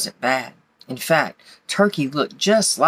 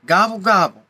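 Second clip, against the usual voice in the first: higher, slightly louder storybook howl; mock howl, pitched up; howling turkey; 4 semitones higher, 4 dB louder than usual. A narrator's reading. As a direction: gobble out a mild turkey howl. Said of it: "he howled".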